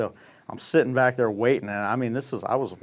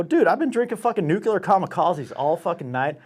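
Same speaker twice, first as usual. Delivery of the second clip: higher-pitched, clearly worded pleading; retold exasperated complaint; agitated protest; 5 semitones higher than usual. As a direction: plead your drunken case in one run. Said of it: "I couldn't even say nuclear kamikaze".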